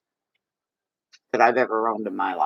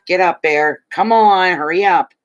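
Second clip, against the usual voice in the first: louder and higher, urging the dog on; calling the dog; 5 semitones higher, 4 dB louder than usual. Real, not acted. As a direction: hurry the dog along, raised. Calling her dog to move.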